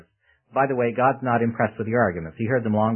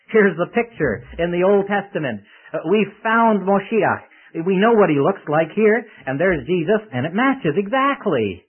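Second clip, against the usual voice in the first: louder, higher, with drawn-out key words; excited announcement; 6 semitones higher, 6 dB louder than usual. Acted. Andrew telling his brother Peter he found Moshiach, excited announcement. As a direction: proclaim the discovery with rising excitement.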